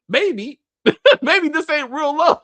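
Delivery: mocking the heroine while cracking up; laughing mock.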